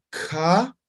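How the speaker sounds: Ka popped with a glottal click; ejective ka. Shown as a demonstration. Teacher shows explosive Ka. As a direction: crack the Ka out sharply.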